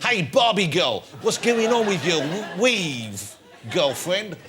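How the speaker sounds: drawn-out mock heckle; heckler character. Host heckles the comedian in character, mock heckling. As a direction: tease like a heckler in a lightly put-on voice. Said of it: "this character, he's inhabiting me now".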